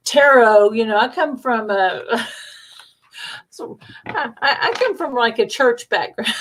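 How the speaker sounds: laughing embarrassedly through the words. Real, not acted. Telling listeners about her church background, laughing. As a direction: giggle it out, a little flustered. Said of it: "I was kinda horrified".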